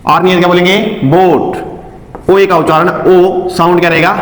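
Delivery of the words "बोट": बोट slowly, the o held long; teacher modelling a long o in बोट. Shown as a demonstration. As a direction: draw out the o in बोट. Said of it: "long रहेगा".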